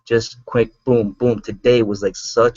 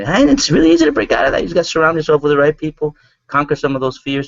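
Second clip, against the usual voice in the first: much higher and louder, fast; excited; 4 semitones higher, 4 dB louder, faster than usual. Real, not acted. Urging listeners to break free, excited. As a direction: burst out with excitement. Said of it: "I, I'm so excited".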